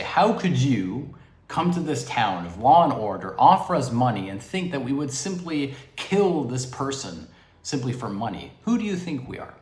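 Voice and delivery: mock-indignant townspeople, emphatic at first; retold indignation. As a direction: protest like affronted townsfolk, lightly acted. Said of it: "with indignity".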